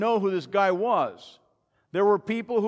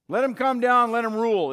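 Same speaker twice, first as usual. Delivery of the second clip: loud, higher-pitched dare; demanding challenge; 3 semitones higher, 5 dB louder than usual. Acted. Doubters daring the king to come down, loud and demanding. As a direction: call it out as a challenge.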